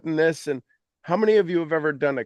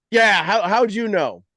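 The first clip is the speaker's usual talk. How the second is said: surprised caller; 5 semitones higher, 6 dB louder than usual. Retold or imitated. Acted caller on phone.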